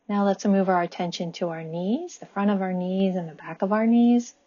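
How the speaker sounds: calm body-scan guidance, long pauses between phrases; guided meditation. Acted. Guiding listeners' attention up the body with gratitude, calm meditation voice. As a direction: lead them gently and evenly, leaving room to breathe.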